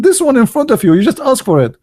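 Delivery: high, teasing near-laugh; mock gloating. Teller mocks friend.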